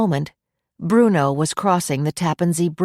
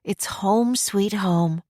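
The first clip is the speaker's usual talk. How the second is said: very slow, fond and dreamy; drawn-out sigh of homecoming; 4 semitones higher, much slower than usual. A narrator's reading. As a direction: linger on every word contentedly. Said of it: "Lori sighed".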